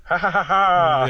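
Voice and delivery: high, spoken nervous ha ha ha; nervous laugh. Real, not acted. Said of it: "That's a nervous laugh at that point".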